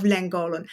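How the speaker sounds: Llangollen said the English way; English pronunciation. Shown as a demonstration. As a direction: say Llangollen with English sounds, not Welsh ones. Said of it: "that's my English way of pronouncing it".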